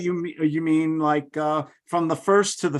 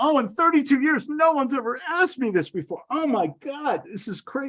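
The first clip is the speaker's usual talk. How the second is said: hammy fake struggling, high, breathing hard; 9 semitones higher than usual. Showing how to act out struggling in a negotiation: put-on struggle, breathing hard. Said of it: "I'm breathing hard and I'm saying".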